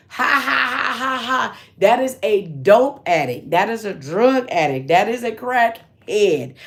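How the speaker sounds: a hint of amused aunties scoffing; mocking laugh. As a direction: laugh it off at her, lightly mocking. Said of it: "and I quote".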